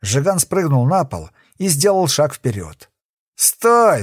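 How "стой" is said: higher, louder barked halt; shout. A narrator's reading. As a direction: bark the command. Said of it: "закричал Кокон".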